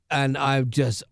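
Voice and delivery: drawn out and drowsy; nodding off. Real, not acted. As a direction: fight to keep your eyes open. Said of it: "I am falling asleep as we speak".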